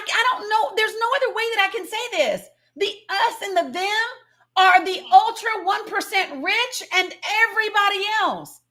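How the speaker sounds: normal talking voice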